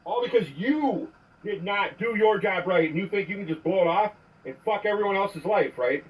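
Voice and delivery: angry voicemail rant; furious message to an officer; leaving a voicemail. Real, not acted.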